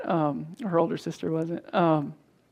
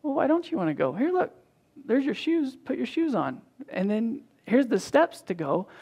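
higher, patient coaxing voice; gentle coaxing; 4 semitones higher than usual. Retold or imitated. Father patiently coaxing his daughter into her shoes, gentle. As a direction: coax her along kindly. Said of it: "So gentleness instead".

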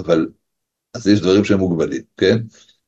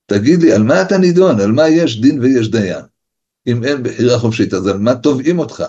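stern accusing judge; 4 semitones higher than usual. Pretend. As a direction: interrogate him like a judge at heaven's court. Heavenly judge questions the soul. (שופט נוזף בקול גבוה ורם)

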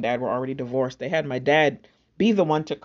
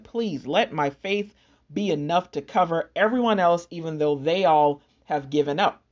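retold begging. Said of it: "I was, like, begging".

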